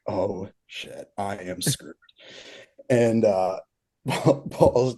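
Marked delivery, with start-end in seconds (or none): 0.1-1.9 hushed dread. Retold or imitated. Realizing the prank, panicked aside.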